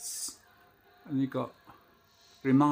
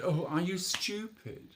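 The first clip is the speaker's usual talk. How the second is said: mock exasperated; 4 semitones higher, slower than usual. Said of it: "I just said".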